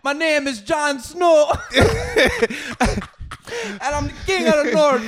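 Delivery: high, loud mock proclamation; Jon Snow. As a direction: announce yourself as a hammed-up fantasy hero. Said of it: "And this nigga's like".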